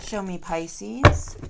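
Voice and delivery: slow, loud and drawn out; loud call. Real, not acted. Reader calls on the deck for Pisces, loud and slow. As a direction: call the cards up with a flourish.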